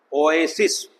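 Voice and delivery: "ओएसिस" with full O, then full long A; two diphthongs. Shown as a demonstration. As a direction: sound both diphthongs in "ओएसिस". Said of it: "इसमें दो diphthong मिले हुए हैं".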